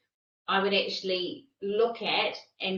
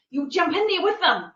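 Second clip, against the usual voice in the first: mock excited; 8 semitones higher, 8 dB louder than usual.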